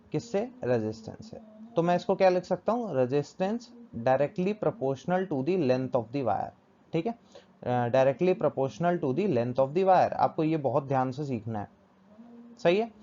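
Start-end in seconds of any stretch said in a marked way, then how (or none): 3.0-6.5 very slow, drawn-out dictation; spaced-out teacher's dictation. Shown as a demonstration. Teacher dictates while writing. 7.9-10.1 very slow, measured dictation, slightly lower; drawn-out words as if writing them. Shown as a demonstration. Teacher repeats while writing.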